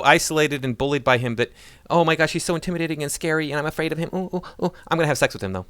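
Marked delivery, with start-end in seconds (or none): 1.9-5.7 mocking frightened woman. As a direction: parody a scared woman squealing.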